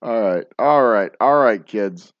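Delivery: loud rallying call; host shouting to wrap up. Real, not acted. Calling the chat to order.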